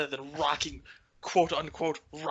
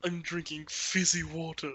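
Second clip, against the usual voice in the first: snooty voice; 4 dB quieter than usual. Retold or imitated. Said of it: "do a snooty voice".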